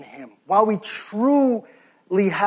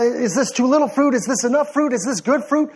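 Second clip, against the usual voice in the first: hurried, mildly hammed-up fretting; mock stressed-out; 3 semitones higher, faster than usual. Preacher imitating a branch fretting over fruit, mock stressed out. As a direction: pile up anxious questions in mock worry. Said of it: "stress out about".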